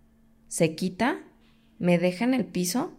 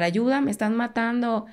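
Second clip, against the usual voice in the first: retold cry for help; 3 semitones higher than usual. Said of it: "Yo empecé a gritarles a los vecinos".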